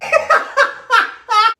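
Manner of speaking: bright burst of high laughter. Real, not acted. Cook laughing at the dish name, high burst of laughter.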